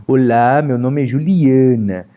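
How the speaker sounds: nasal Juliana. Shown as a demonstration. Pastor imitating an acquaintance's nasal introduction, nasal. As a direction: push every syllable through the nose.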